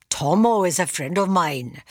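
a bad Welsh accent; slight, clumsy Welsh accent. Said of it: "That's a terrible Welsh accent".

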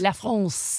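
La France with a nasal French vowel; French pronunciation. Shown as a demonstration. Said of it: "Is that how they say it over there".

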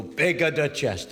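lightly hammed Italian accent; mock Italian accent. Shown as a demonstration. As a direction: say it in joke Italian. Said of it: "That's Italian".

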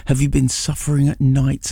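ordinary talk

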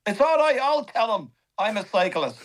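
high, breezy mock Chris Hoy. Chris Hoy shrugging it off to the comedian, high and breezy.

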